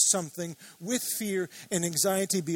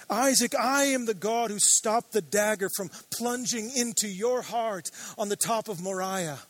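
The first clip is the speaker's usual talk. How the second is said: God's reassuring voice; 3 semitones higher than usual. Retold or imitated. Preacher voicing God to frightened Isaac, rising proclamation. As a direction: declare it like God steadying a frightened son.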